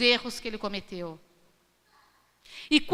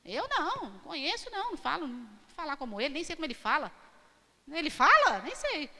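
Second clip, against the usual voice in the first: frightened denial; 5 dB quieter, faster than usual. Retold or imitated. Peter's frightened denial acted.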